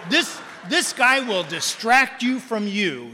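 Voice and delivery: lightly voiced Jim, slow and amused; imitating Jim, slow. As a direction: hand him off with a grin. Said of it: "He saw me and he said".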